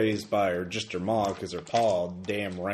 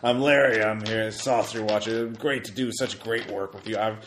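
eager nerd Larry. Acted. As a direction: gush like an overeager fan. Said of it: "so he's like".

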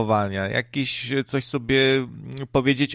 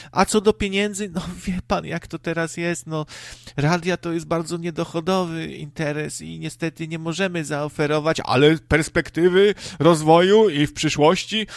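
higher, apologetic radio manager voice; a hint of a fake-sorry manager; mock excuse; 5 semitones higher than usual. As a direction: spin it like a smooth excuse. Mocking station excuse about money.

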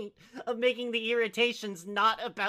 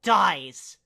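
put-on high, loud teenage tirade read out; raging rant; 6 semitones higher, 7 dB louder than usual. Reader performing a student's rant about her teacher, raging rant. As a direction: pile up the curses in hammed-up fury.

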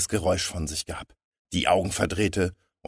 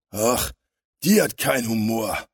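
louder, higher-pitched sulky villain; disappointed grumble; 4 semitones higher, 5 dB louder than usual. A narrator's reading. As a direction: grumble it, let down by the audience. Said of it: "grollte der Stämmige enttäuscht". (enttäuscht grollend)

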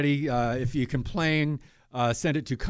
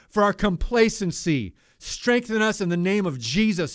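fervent prayer. Real, not acted. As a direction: pray it out urgently, with feeling. Host breaks into earnest prayer.

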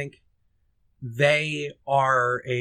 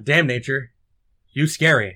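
quoting Family Guy; 3 dB louder than usual. Retold or imitated. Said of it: "It's just that line".

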